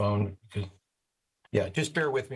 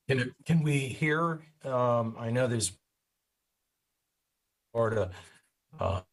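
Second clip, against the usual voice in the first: crackly cordless phone. Real, not acted. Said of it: "You're fading in and out".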